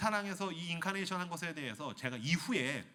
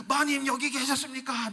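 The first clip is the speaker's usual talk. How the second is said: fawning nobleman, higher; 10 semitones higher, 6 dB louder than usual. Acted. Nobleman bowing.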